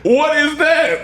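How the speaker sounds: high, slow baffled question; stunned disbelief. Real, not acted. Friend hearing the clip, high slow stunned disbelief. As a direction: stretch it out in disbelief.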